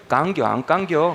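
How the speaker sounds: slow, drawn-out Chungcheong accent; Chungcheong dialect. Shown as a demonstration. Preacher shrinking a tongue twister for congregation, slow Chungcheong accent. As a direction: ask it slowly like a Chungcheong local. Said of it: "충청도".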